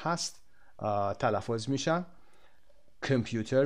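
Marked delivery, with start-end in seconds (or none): 3.0-3.7 کامپیوتر with an unstressed schwa first syllable, "kəm-"; correct schwa pronunciation. Shown as a demonstration. Teacher showing students the schwa word, correct schwa pronunciation. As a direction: say کامپیوتر the English way, weak "kəm" at the start.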